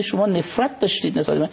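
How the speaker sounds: lifted, emphatic divine voice; a hint of God's commanding tone; voicing God. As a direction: speak as God, declaring firmly. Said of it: "خدا میگه".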